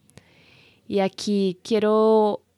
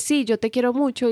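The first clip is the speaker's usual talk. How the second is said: quick, higher-pitched throwaway affection; fast, uninterested; 5 semitones higher than usual. Shown as a demonstration. Showing listeners a partner's careless love declaration, fast and uninterested. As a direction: rattle it off without interest. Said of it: "lo digo muy rápido, como sin interés".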